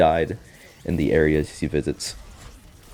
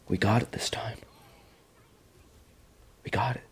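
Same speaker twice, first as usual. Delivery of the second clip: mock whisper; 3 semitones higher, 7 dB quieter than usual. Lily voiced hushed reassurance.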